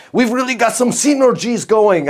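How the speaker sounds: high, hammed-up French accent; bad French accent. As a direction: badly imitate a French client. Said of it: "That wasn't even a good French accent".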